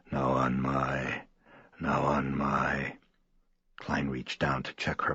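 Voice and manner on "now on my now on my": slow, low, strange muttering; guttural muttering. Acted. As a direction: mumble like something not quite human. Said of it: "mutter something incomprehensible in an oddly guttural tone".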